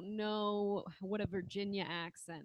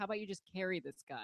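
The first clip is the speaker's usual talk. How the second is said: ordinary talk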